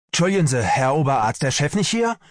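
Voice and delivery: high, urgent question; agitated call. A narrator's reading. Medic bursts in asking for the chief, agitated call. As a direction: burst in looking for the boss. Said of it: "rief Pelz aufgeregt".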